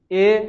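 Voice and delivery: "ا" said as a short e; kasra vowel. Shown as a demonstration. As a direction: spread the mouth into an e for "ا". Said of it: "میشکنه".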